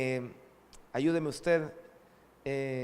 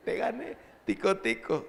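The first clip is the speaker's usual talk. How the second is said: teasing gloat; 4 semitones higher than usual. Retold or imitated. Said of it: "ella se burla de mí".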